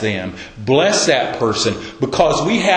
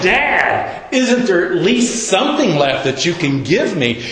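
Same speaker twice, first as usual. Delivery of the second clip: higher, pleading son begging his father; pleading cry; 4 semitones higher than usual. Retold or imitated. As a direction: beg your father for any blessing left. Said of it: "He cried".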